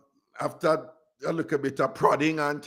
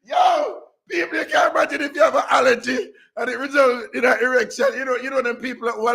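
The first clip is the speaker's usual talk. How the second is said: calling out; 8 semitones higher than usual. Real, not acted. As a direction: shout it out to everyone. Calling out to listeners.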